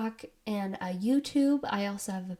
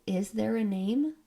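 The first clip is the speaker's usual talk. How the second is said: rising question on "name"; questioning tune. Retold or imitated. Quoting the spirit's reply as a question, rising on "name". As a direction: ask it, lifting at "name". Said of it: "it sounds like a question".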